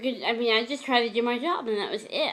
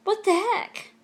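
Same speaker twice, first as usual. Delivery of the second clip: panicked disbelief; 10 semitones higher than usual. Retold or imitated. Facing a raised fist, high panicked what the heck. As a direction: squeak it out as the fist comes up. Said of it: "I'm like".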